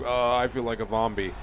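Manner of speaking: usual speaking voice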